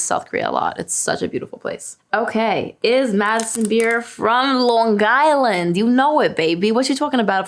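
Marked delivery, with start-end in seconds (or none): 2.8-7.5 put-on Long Island accent. Reading a question about her hometown, playful Long Island accent.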